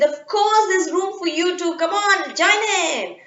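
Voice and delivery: put-on bright invitation from young Minna; little girl voice. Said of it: "She said".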